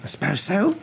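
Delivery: high-pitched, stiff reply; Mrs Dursley, stiff. Acted. Wife grudgingly answers her husband about their nephew, stiffly. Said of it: "said Missus Dursley stiffly".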